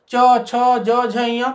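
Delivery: च, छ, ज, झ, ञ each said clearly against the palate; demonstrating letters. Shown as a demonstration. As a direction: sound out च, छ, ज, झ, ञ one by one. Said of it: "जीभ का कौन सा हिस्सा तालु को".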